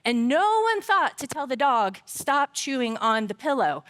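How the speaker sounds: retold indignant scolding, stressed and rising; angry scolding. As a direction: scold them in mock outrage. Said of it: "I got so angry".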